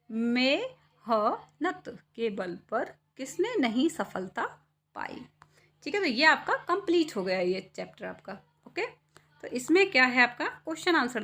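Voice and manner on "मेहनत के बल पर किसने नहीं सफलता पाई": very slow, fading recital; poem recitation. Acted. Poem line. (धीमा घटता कविता पाठ)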